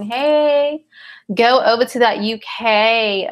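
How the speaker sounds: half-hearted attempt at a British accent; loosely imitated British accent, tired and approximate; whack British accent. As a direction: put on a bad British accent. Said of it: "the British accent pretty well. But that was a whack version".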